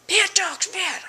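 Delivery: high, loud scolding of the dogs; bad dogs, scolded loud and high; mock scolding. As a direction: scold the dogs like a stern owner. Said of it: "telling them they're bad dogs".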